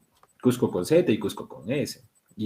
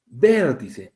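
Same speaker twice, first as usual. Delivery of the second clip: "vértice" with the first syllable stressed; "VÉR-ti-ce", first syllable brought out. Shown as a demonstration. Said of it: "estas sí tienen".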